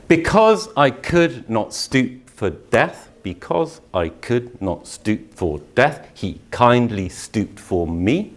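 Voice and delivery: slow, measured recital of the verse; poetry recitation. Shown as a demonstration. Teacher reciting Dickinson to the class, slow and measured. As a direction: let each word land slowly.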